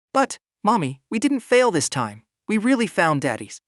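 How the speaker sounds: put-on high, proud little girl. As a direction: boast it like an eager toddler. Little daughter boasting to her mother.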